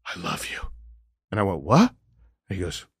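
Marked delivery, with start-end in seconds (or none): 0.0-0.6 faint, frail dying man; barely there, soft and tired; weak quiet voice. Retold or imitated. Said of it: "he had no energy". 1.6-1.9 sharp rising what; startled question; surprised. Retold or imitated. Surprised by father's words.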